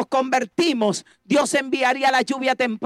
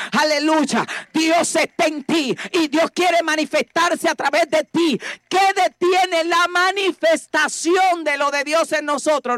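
prédica enérgica; 3 semitones higher than usual. Real, not acted. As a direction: drive each phrase home to the congregation. (prédica con fervor creciente)

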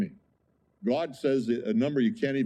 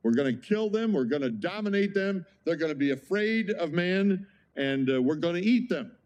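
mock bravado; 5 semitones higher than usual. Preacher mocks human dominance.

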